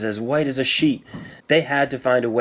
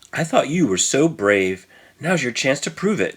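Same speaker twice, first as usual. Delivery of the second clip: excited cry; 3 semitones higher than usual. Acted. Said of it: "cried Tommy".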